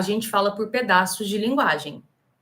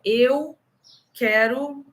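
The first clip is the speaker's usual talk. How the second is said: struggling foreigner. Retold or imitated. Teacher imitating a gringo ordering water, lightly halting. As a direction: stumble through it like a confused gringo. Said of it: "imagina um gringo aprendendo português".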